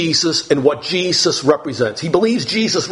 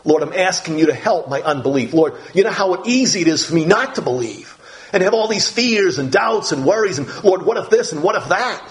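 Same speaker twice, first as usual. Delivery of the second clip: honest humble plea. Retold or imitated. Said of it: "so honest and so humble to say".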